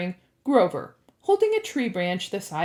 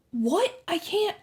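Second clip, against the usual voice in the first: raised, alarmed voice; higher, flustered refusal; balking protest; 10 semitones higher, slower than usual. A narrator's reading. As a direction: protest that it's beyond you. Percy balks at the task.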